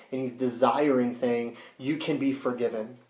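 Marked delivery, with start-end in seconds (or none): 1.8-3.0 soft, gentle reassurance; softened, understated tenderness; compassionate. Retold or imitated. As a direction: quietly offer mercy, voicing another's words. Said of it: "Jesus showing compassion to them".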